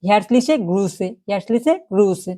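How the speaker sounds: very slow, careful model of the phrase; drawn out so students can copy; slow German demo. Shown as a demonstration. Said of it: "এটা কি".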